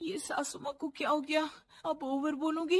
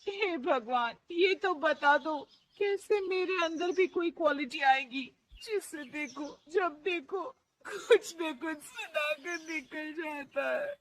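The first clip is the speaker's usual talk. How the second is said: tearful prayer; 4 semitones higher than usual. Acted. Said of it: "वो रोने लगती है".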